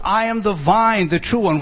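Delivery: VINE and true each get their own beat; equal force on vine and true. Shown as a demonstration. Preacher explaining word order, equal force on vine and true. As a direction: hit vine first, then true. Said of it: "to give equal force to both".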